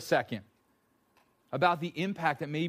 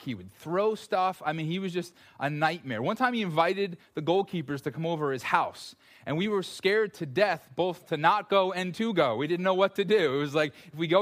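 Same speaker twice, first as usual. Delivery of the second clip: usual speaking voice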